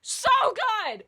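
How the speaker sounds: high, loud, drawn-out raving; ecstatic gushing. Real, not acted. Host raves to viewers as the hook kicks in, ecstatic gushing. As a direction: cry out in overwhelmed delight. Gushing over the favourite part.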